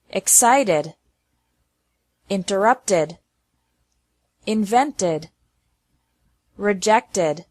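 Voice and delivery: "Accepted, appreciated, cheated" with the ed said as a full id syllable; careful word list for a class; ed as extra syllable. Shown as a demonstration. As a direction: give every ed its own syllable. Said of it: "E D with an extra syllable".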